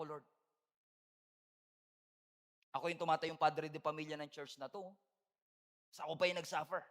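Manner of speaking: quiet sincere aside to the church; sincere confession. Real, not acted. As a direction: drop the voice and confess. Confessional aside, lower and softer.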